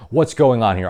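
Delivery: hammed-up indignant whine; mock outraged. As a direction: play a betrayed voter throwing up their hands. Mock supporter's outraged question.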